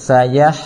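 سيح ending on a thin, light ح. Shown as a demonstration. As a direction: say سيح with the final ح kept thin. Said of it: "ต่อ ح ออกเสียงให้เล็กนะครับ".

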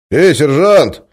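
loud, high hail; calling out. Acted. Major calls out to the pacing guard, loud. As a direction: call down the corridor. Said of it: "окликнул он".

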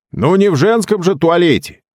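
a hint of a wry projectionist; lightly voiced projectionist. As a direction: toss off the joke. Phil's wry reply from balcony.

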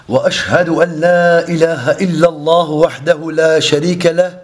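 formal recitation on a level pitch; Arabic sermon opening. Real, not acted. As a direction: ceremonial Arabic invocation, evenly intoned.

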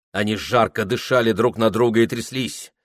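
ordinary delivery, nothing marked

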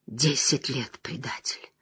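low, soft accusing voice; quiet. Acted. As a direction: say it softly, with menace. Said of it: "тихо произнёс Льюстерин".

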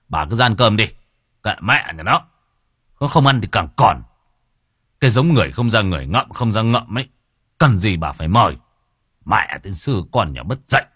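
angry father. Acted. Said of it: "nói giọng vào".

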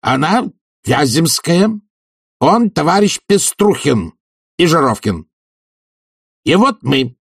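high, measured introductions under tension; name each comrade deliberately, anger held in; restrained fury. A narrator's reading. Committee head presents his comrades to the professor, tightly controlled. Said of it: "в сдержанной ярости заговорил черный".

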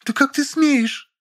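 high, slow, ringing with outrage; ringing indignation. A narrator's reading. Lilya outraged at the narrator, high, slow and ringing. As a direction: let the outrage ring out slowly. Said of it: "Голос Лили звенел от негодования".

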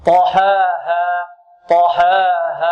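slow "طحاها" with both alifs held two counts; equal vowel lengths. Shown as a demonstration. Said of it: "فنسوي بينهما في المد". ("طحاها" بتسوية المد بين الألفين)

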